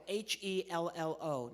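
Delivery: slow letter by letter H E L L O; teaching the puppet the spelling. Shown as a demonstration. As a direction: spell each letter slowly. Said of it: "I'm talking about the word hello".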